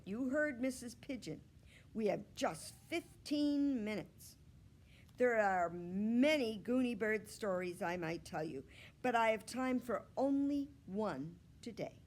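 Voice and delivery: a hint of a bold little girl asking for the spotlight; eager girl Gooney Bird. Gooney Bird asking the teacher to be the hero, eager.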